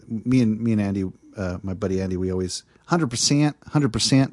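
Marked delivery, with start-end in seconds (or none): 2.9-4.3 put-on Texan accent. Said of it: "I have to get into her voice".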